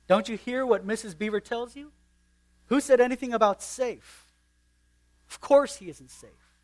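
put-on Mister Beaver scoffing at the children; indignant. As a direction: scoff at the very idea of safe.

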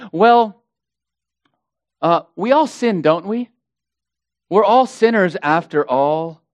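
lightly mocked, glib false-teacher voice; mimicking false teachers. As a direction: shrug off sin as a smooth excuser would. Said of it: "They sound like this".

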